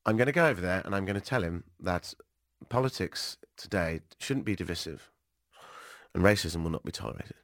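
measured retake with a hint of a stateswoman; Theresa May. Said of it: "let's try that again".

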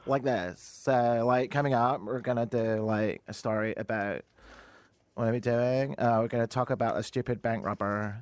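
mock Toronto accent with hesitant "like" fillers; put-on Canadian accent. Shown as a demonstration. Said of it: "my normal accent".

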